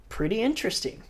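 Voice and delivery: downplay it with a grin; grinning understatement. Retold or imitated. Kelly after a perfect barrel, laughing understatement. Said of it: "he's got this big old grin".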